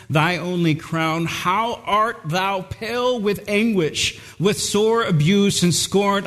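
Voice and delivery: slow, solemn reading of the hymn; slow hymn recitation. Acted. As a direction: recite the hymn lines slowly and reverently. Hymn text recited slowly.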